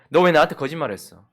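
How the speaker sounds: a contained, acted confrontation; mild angry reproach. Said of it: "화를 내고 있는데". (절제된 화로 따져 묻듯)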